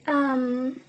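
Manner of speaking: losing her voice, throat catching; hoarse voice. Real, not acted. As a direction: push through a hoarse throat. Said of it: "I'm kind of losing my voice".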